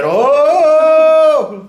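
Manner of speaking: very high, loud shocked yelp. Real, not acted. Hearing that females have no place, shocked high yelp. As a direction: yelp in disbelief. Reacting to sexist remark.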